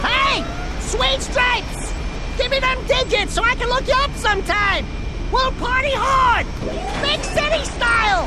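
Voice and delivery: loud, high come-on yelled across the street; flirty shout. Acted. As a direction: holler it at her like a cocky flirt. Calling out to a passing woman.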